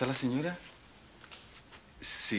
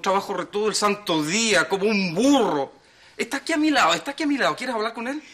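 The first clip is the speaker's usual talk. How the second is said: louder, pushing the lie hard; loud defensive protest to his wife; defensive insisting; 3 semitones higher, 4 dB louder than usual. Acted. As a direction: overinsist to sound believable. Husband lying to suspicious wife.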